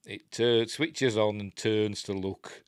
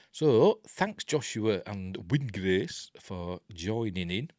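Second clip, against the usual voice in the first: hoarse throat; 3 dB louder, slower than usual. Real, not acted. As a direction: voice roughened by a tired throat. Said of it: "crikey, my throat's going".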